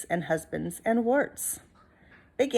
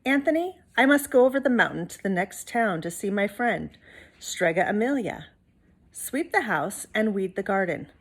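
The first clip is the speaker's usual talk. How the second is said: a hint of a stern grandmother giving orders; gently bossy witch; lightly voiced old witch. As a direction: lay down the chores firmly. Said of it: "Stregonona said to Big Anthony".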